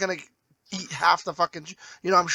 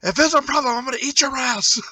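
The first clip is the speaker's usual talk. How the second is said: mock threat; 7 semitones higher, 3 dB louder than usual. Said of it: "she's just like".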